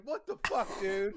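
high-pitched mock outrage at a buddy; retold incredulous squeal; exasperated protest. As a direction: pitch jumps way up in disbelief. Retold protest at buddy next door.

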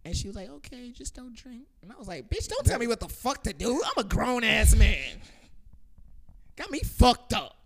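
high, loud, heated rant; angry yelling. Retold or imitated. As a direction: yell it like an insulted grown man. Retold rant at the girl.

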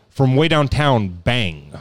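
lightly voiced sportscaster call; Keith Olbermann. Host voices a catchphrase for guessers, understated announcer impression. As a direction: punctuate it like a highlight, dropping on the last word. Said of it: "I'll do the voice on this one, too".

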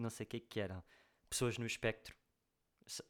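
normal talking voice

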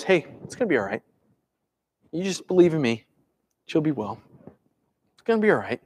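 soft, easy comfort; calming reassurance. Acted. Jesus turning to Jairus to settle him, calming. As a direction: quietly talk someone down. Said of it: "Jesus is calming him".

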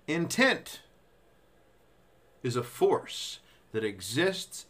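slow, weighty reading with long pauses; slow dramatic reading. Shown as a demonstration. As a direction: read it slowly, like a mystic revelation. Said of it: "I'll do it faster, just normal speed".

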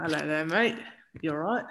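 tentative attempt at a British accent; amateur British accent, a little unsure. Shown as a demonstration. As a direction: try out a casual British accent. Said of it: "give me your British accent".

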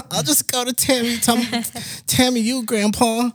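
cheeky tease. Retold or imitated. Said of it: "I told my grandpa, I was like".

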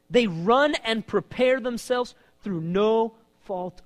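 loud, high, then slowing into each word; impassioned plea. Acted. David showing God his enemies, loud and pleading. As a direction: cry it out, then lay it down slowly. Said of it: "he's saying".

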